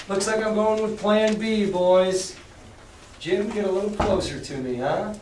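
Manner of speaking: lightly voiced pirate, sly and cool; a hint of a cunning pirate changing plans; Silver's voice. Reader voicing Silver to the pirates, lightly sly.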